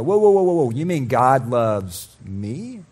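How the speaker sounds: amazed delight. Pretend. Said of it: "light up and go".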